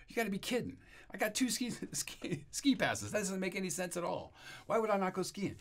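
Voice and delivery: high, loud disbelieving whine; incredulous protest. Retold or imitated. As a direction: act out a big incredulous "you gotta be kidding". Retold disbelief at God's instruction.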